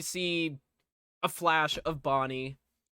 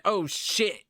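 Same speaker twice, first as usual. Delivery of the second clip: higher, punchy startled reaction; mock alarm; 4 semitones higher, 4 dB louder than usual. Kid turns and sees Chica, mock alarm. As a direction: blurt it in hammed-up surprise.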